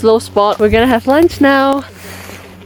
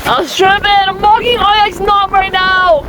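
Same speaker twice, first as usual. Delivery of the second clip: excited; 9 semitones higher than usual. Real, not acted. Summit excitement.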